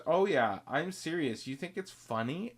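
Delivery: retold huffy lady; mock angry retort. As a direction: bristle back at him. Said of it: "And she goes".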